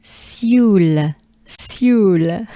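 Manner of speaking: "Sioule" drawn out in French; French Sioule, long vowel and clear final L; French pronunciation demo. Shown as a demonstration. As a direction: model Sioule slowly for learners to repeat. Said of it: "We can do this".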